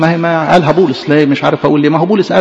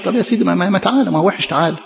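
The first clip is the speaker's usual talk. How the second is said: gentle coaxing; 2 semitones higher, 4 dB quieter, faster than usual. Acted. Coaxing the sinner softly.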